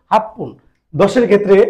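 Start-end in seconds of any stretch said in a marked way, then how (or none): 0.1-0.5 হাপ্পুন with a doubled p, ha-ppun; correct reading. Shown as a demonstration. Teacher corrects students' counting, clear and plain. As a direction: say হাপ্পুন, not হাচি পুন. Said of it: "হাচি পুন না বলে বলতে হবে".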